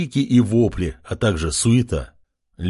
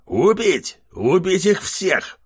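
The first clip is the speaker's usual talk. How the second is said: high, shouted kill order; commanding order; 8 semitones higher, slower than usual. Acted. Chief orders his warriors, high shout. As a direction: bark the order to attack. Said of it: "приказал вождь".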